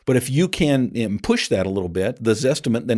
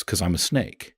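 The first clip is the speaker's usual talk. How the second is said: snake's cold answer; 4 semitones lower than usual. Retold or imitated. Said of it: "And the answer is".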